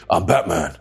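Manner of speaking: lightly put-on deep hero voice; a hint of a mock superhero growl; Batman. Guy jokes about forcing the deep voice, mock hero voice. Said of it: "Use the deep voice or anything".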